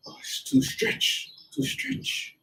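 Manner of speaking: high, breathy mock teacher scolding; imitating teacher's broken English. Teacher telling a student the stance is overstretched, high breathy mimicry. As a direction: fuss like a master who speaks little English. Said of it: "Don't speak too much English".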